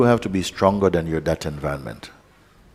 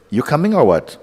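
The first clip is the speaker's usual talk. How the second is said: higher, laughing, cheeky call; mock voice of attention; 8 semitones higher, 5 dB louder than usual. Teacher voicing attention to his students, laughing and playful. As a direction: tease like an impatient friend at the door. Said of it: "Will the attention say".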